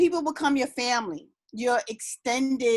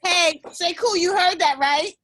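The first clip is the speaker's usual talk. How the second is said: playful teasing; 6 semitones higher, 4 dB louder than usual. Real, not acted. Teasing husband on mute.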